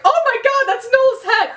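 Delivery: very high, squealed imitation of shock; mock-horrified Spencer. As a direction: make fun of the horrified reaction. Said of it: "Spencer looks down and it's just like".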